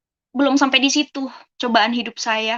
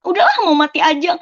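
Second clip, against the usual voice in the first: higher-pitched outburst of giving up; retold despair; 5 semitones higher, 4 dB louder than usual. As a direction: recall a moment of hopelessness, pitch lifted. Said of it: "aku tuh udah putus asa".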